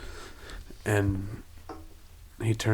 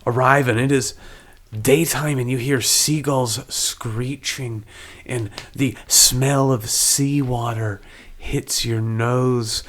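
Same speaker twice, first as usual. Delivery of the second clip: slow, deliberate scene setting; spaced-out phrases that build the picture; game master narration; 2 semitones higher, slower than usual. A narrator's reading. Game master describes the arrival by sea, slow deliberate narration.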